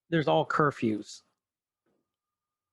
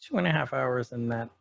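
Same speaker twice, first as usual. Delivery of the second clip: congested voice from pollen; stuffy nose; 3 semitones lower than usual. Real, not acted. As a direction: talk through a blocked nose. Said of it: "you have to forgive me".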